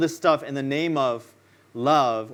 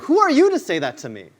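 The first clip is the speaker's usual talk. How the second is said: higher, louder, offended challenge; indignant retort; 7 semitones higher, 6 dB louder than usual. Retold or imitated. Someone rebuked by a peer, loud offended challenge. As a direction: bristle at the criticism.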